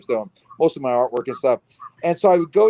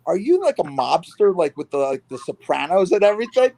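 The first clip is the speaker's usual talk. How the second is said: put-on quoting the girl; 3 semitones higher than usual. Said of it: "She goes".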